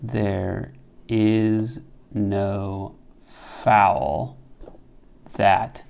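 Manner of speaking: drawn out very slowly, word by word; very slow scansion. Shown as a demonstration. Teacher tests the line's meter aloud, very slowly. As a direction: stretch every syllable to weigh the meter. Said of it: "two possibilities".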